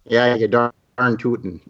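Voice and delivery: put-on light folksy Fargo accent; a touch of Upper Midwest Fargo twang. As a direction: slip into a mock Fargo accent. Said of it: "default to a Fargo accent".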